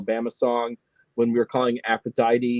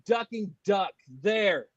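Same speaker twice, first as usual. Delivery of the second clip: laughing; 10 semitones higher, slower than usual. Real, not acted. Mock mourning the killed duck.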